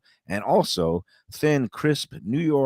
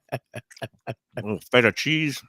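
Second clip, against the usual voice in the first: mouth full. Real, not acted. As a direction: savor it with a mouth full of food. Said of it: "stuffing a little bit of roast pork".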